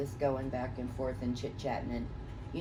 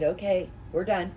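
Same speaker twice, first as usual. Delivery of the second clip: setting boundaries; 2 semitones higher, 3 dB louder than usual. Retold or imitated. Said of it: "I set the rules".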